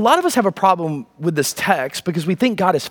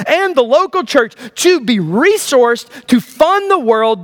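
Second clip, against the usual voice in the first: higher, emphatic preacher's cadence; impassioned preaching; 5 semitones higher than usual. Real, not acted. Preacher declaring God's plan for the church, impassioned. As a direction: proclaim it, stretching the key words.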